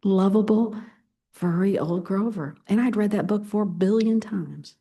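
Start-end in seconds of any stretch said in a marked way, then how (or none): 0.0-2.5 hushed. Shown as a demonstration. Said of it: "You know what monster they find?".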